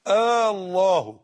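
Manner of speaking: «الله» opened with a long drawn-out «آ»; interrogative hamza. Shown as a demonstration. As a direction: stretch the first vowel of «الله», very slowly. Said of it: "أدخل على لفظ الجلالة همزة استفهامية". («الله» بهمزة استفهام ممدودة في أولها)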